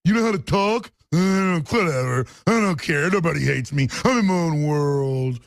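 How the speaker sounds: mocking bored dismissive shrug; dismissive public. Mocking the beaten-down public, bored and dismissive. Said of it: "general public who's".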